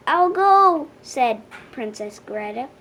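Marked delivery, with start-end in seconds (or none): 0.1-0.9 eager. A narrator's reading. Princess volunteers boldly.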